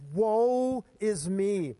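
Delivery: loud, slow, drawn-out cry of woe; a touch of shaken awe, stretched out; awestruck dismay. Acted. Isaiah before the Lord, shaken and awestruck. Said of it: "he's shaken to the core".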